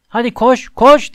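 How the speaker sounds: Harry yelling at Hermione to run, rising shout; urgent shout. A narrator's reading. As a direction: scream at her to run. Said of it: "diye bağırdı Hermione'ye".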